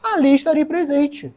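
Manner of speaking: slow, loud, solemn scripture; solemn scripture quote rising high; quoting Jesus solemnly. Acted. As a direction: proclaim Jesus' promise with weight. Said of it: "Jesus falou assim".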